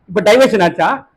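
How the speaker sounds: slow, shouted rebuke; preacher challenges the distracted congregation with a slow shout; rebuking shout. Real, not acted. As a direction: call them out sharply.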